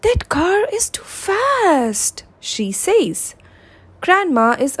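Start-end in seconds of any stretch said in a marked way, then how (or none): 0.0-2.2 high, slow, cross whisper; angry whisper. A narrator's reading. Mum scolding grandma in an angry whisper. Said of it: "Mum is angry with Grandma".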